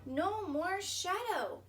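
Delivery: relieved sigh. Acted. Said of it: "sighed Bear".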